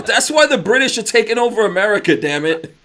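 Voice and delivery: loud, high comic rant; mock outburst. Joking about British accents winning ladies over, loud mock outburst. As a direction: exclaim in pretend outrage.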